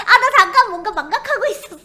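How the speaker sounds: loud fast laughing excuse. Real, not acted. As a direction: give up and laugh. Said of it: "넌 그냥 웃기로 하는 거야?".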